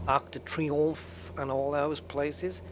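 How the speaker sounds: slow, light mock French accent on Arc de Triomphe; a little French accent, said slowly for fun. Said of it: "I've done a little French accent there".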